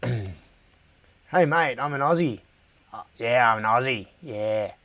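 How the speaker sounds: lightly hammed-up Aussie accent; a touch of caricature Australian. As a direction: put on a bit of broad Australian. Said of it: "I hate the Australian accent".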